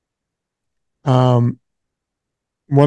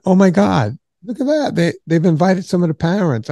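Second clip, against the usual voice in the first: higher-pitched, mildly astonished retelling; retold surprise; 4 semitones higher than usual. Telling friends he spotted parents at the reunion, mildly surprised. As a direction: act out a startled double take, lightly. Retelling shock at seeing aged classmates.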